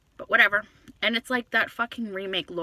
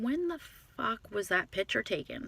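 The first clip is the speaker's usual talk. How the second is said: inner thought; 3 semitones higher, 7 dB quieter than usual. Retold or imitated. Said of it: "I'm thinking".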